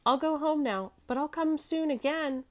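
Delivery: put-on high child's voice; little girl Mäzli. A narrator's reading. Little girl taking leave of gentleman, high child's voice.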